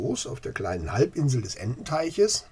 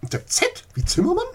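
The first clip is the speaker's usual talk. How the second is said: sarcastic; 4 semitones higher, 7 dB louder, faster than usual. Acted. Skeptical lady mocks the idea.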